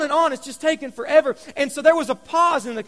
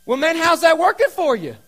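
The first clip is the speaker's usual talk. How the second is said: serious question; 5 semitones higher, 5 dB louder than usual. Retold or imitated. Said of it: "I get a real serious look on my face".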